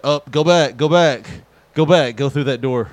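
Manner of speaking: loud, high retold shout; frantic mock order to go back; mock yell. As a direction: bark it like a panicked coworker. Coworker yelling to go back.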